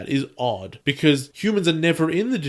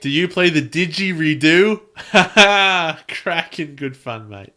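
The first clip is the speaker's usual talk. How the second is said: put-on Australian accent; 2 semitones higher, 5 dB louder, slower than usual. Joins the mock Australian bit.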